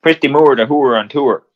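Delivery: lightly put-on thick Kildare accent; teasing Kildare-accent mimicry; mock Kildare accent.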